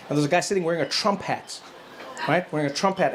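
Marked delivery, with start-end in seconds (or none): none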